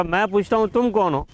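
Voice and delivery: put-on hurt boy shouts his angry question at the mountain; angrier demand. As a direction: demand an answer, pushing hard on تم. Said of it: "بچے کو اور غصہ آیا".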